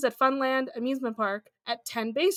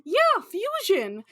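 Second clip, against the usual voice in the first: drawn-out echo; 6 semitones higher, much slower than usual. Acted. Echoing the topic with mock grandeur.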